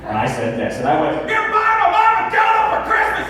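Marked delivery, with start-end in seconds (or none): 1.3-3.3 high, shouted outburst; losing it. Retold or imitated. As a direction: yell it in disbelief, pitch way up. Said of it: "I completely lost my mind".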